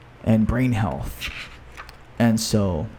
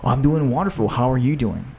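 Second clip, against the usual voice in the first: bright, chirpy greeting; cheery upbeat reply; faster than usual. Retold or imitated. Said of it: "that person".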